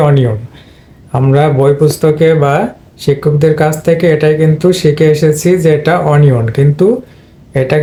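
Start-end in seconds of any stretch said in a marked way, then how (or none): 0.1-0.4 অনিয়ন said "o-ni-on"; common mispronunciation. Shown as a demonstration. Teacher quotes the usual form to students, common mispronunciation. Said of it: "আমরা সাধারণত বলে থাকি". 6.1-6.4 অনিয়ন as "o-ni-on"; mispronunciation. Shown as a demonstration. Teacher cites what books taught us, mispronunciation. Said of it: "ভুল উচ্চারণ".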